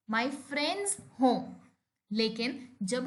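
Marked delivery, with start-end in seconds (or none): 0.1-1.4 very slow, word by word; slow example. Shown as a demonstration. Teacher giving a second example, very slow. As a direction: drag each word out for learners. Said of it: "मीरा's पेन".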